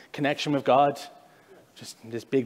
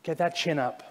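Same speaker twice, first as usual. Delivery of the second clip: softer, gentle repeated call; a hint of a soft fatherly God; tender God voice; 4 dB quieter than usual. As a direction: coax someone to lift their chin. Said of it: "But God's saying".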